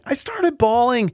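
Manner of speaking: high, slow, emotion breaking through; choked up, voice climbing. Real, not acted. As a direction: let the tears rise into the words. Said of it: "I cry over everything".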